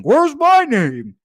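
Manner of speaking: mock plaintive cry of a forgotten viewer; Saturated impression. Host mimics a forgotten viewer asking where he is. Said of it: "he does not sound like that".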